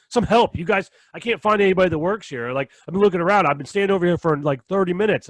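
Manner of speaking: hammed-up impatient shopper; mock irate customer.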